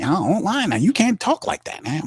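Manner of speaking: indignant protest. Retold or imitated. Reverend Saint and Mickey arguing.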